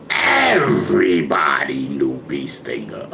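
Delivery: slow, loud, punched out; emphatic exclamation. Retold or imitated. Imitating Lord Jamar's emphatic claim, loud and slow. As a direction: shout it like it's obvious to everyone. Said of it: "you see the way Lord Jamar expressed it".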